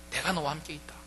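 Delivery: 내가 너와 함께 있다 said softly, gently, as a quiet promise; a tender whisper of comfort to a resentful son; soft reassurance. Shown as a demonstration. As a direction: ease off and let the promise land softly. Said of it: "내가 너와 함께 있다고 하는 말은 뭐냐?".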